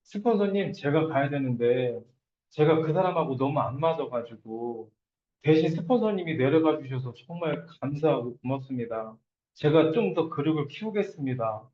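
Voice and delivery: low, deferential and grateful; respectful thanks. Shown as a demonstration. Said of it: "내가 스폰서한테 어떻게 얘기해요?".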